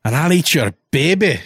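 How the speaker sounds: hammed-up, swooping character voice; comic character impersonation. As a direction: play a broad cartoonish figure. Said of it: "bringing out the impersonations".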